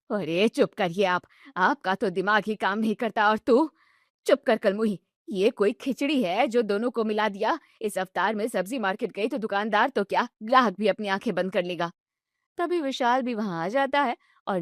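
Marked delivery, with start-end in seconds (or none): 0.1-11.9 put-on bossy older woman scolding her son; stern mother-in-law. Mother scolding her son at the table, bossy. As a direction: snap at him like a know-it-all mother.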